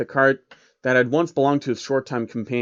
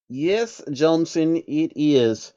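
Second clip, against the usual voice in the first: monotone; 3 semitones higher, much slower than usual. Acted. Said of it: "Jacob answered in monotone".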